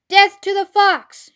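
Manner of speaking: high, slow battle cry; shout. A narrator's reading. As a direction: shout it like a drawn-out war cry. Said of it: "shouted Bunce".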